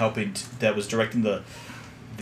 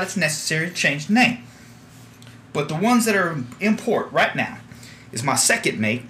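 lightly higher southern captain voice; 5 semitones higher than usual. Acted. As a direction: welcome the new crew aboard. Captain introduces crew in character.

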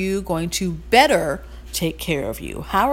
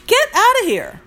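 scoffing dismissal; 13 semitones higher, 5 dB louder than usual. Real, not acted. Scoffing at hissy fits.

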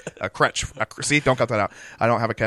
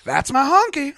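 higher, louder triumphant announcement; proud catchphrase shout; 13 semitones higher, 8 dB louder than usual. Pretend. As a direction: claim your bag with a proud shout. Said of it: "That's how my catchphrase is gonna work".

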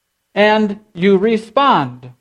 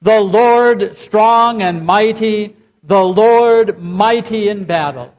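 louder, ringing proclamation with a slow strong and mighty; loud congregational response; 3 semitones higher, slower than usual. Shown as a demonstration. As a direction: lead the room in a full-voiced response. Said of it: "Let's say that together".

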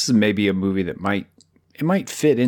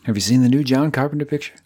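chipper 1950s ad; 5 semitones higher, faster than usual. Acted. Echoing the mock 1950s promo.

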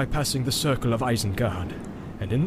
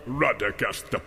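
soft low scornful laugh into the name; 5 semitones lower, 4 dB quieter, slower than usual. A narrator's reading. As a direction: Saruman laughs at Radagast, soft and slow. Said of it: "laughed Saruman".

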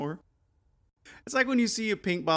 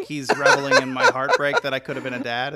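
laughing; 2 semitones lower, 6 dB louder than usual. Real, not acted. Laughing mock complaint.

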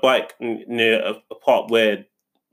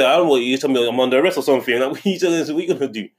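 mild mock aggressive customer; 2 semitones higher, faster than usual. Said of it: "getting quite aggressive".

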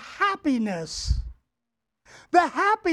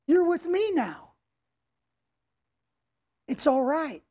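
comforting dad; faster than usual. Retold or imitated. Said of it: "he keeps telling him".

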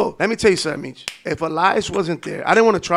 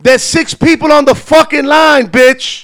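louder, higher laughing yell; angry yell; 7 semitones higher, 10 dB louder, slower than usual. Retold or imitated. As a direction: curse her out with a laugh. Imagined angry retort.

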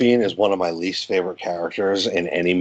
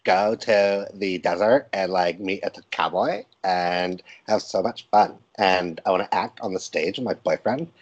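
put-on Valley Girl. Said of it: "talk like a Valley Girl".

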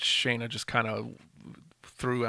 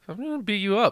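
higher menacing brute voice; monster heel threat; 9 semitones higher, 3 dB louder, faster than usual. Retold or imitated.

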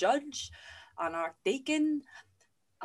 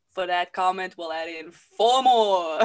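mock spiteful retort; 3 semitones lower, 7 dB louder than usual. Spiteful loud retort, slow.

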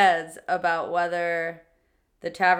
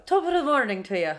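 put-on an Irish accent, rolling the words a bit more; Irish accent attempt; 5 semitones higher than usual. An Irish accent showing her cohost how it's said. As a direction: give it a better Irish lilt. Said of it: "That's more it".

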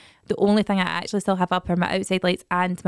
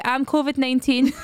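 put-on child deadpan; 5 semitones higher than usual. Charlie's deadpan answer.

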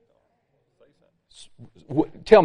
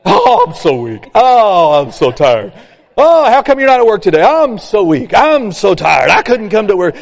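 whining weak person; 3 dB louder than usual. Retold or imitated. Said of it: "what do weak people do typically".

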